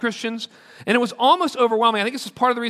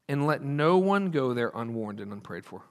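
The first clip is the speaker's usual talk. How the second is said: soft solemn close; 9 semitones lower, 7 dB quieter than usual. Shown as a demonstration. Closing line of quote.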